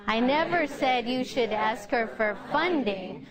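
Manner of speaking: "funding" picked out at the end; stress on FUNDING. Shown as a demonstration. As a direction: save the emphasis for "funding". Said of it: "changing the emphasis can change".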